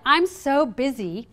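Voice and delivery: slow, mildly acted complaint; negative inner dialogue. Speaker voices the broken-record inner dialogue, slow mild complaint. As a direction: draw out a stressed-out self-complaint. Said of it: "what that inner dialogue is".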